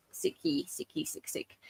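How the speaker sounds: trailing off into a whisper; fading whisper. Real, not acted. Host joking that everyone is ill, trailing whisper. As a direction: let the word fade to a whisper. Playful repeat of sick.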